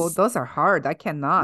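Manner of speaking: mock Russian accent; put-on Russian accent. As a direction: refuse in a comic Russian accent. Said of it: "Stick to Russian".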